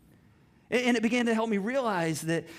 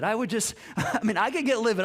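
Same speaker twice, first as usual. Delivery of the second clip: chuckling through the words; laughing; 3 semitones higher, 4 dB louder than usual. Real, not acted. Pastor laughing to the congregation about getting livid. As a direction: laugh it off while talking.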